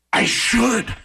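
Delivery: high, breaking-up overexcited reply; excited and emotional. Retold or imitated. Fan takes his friend's advice, excited and emotional. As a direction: answer as an overwhelmed fan. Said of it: "I got excited and emotional".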